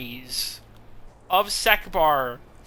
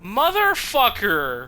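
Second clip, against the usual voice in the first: loud angry curse; furious shout; 6 semitones higher, 5 dB louder than usual. Real, not acted. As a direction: yell it out in outrage. Player furious at game outcome.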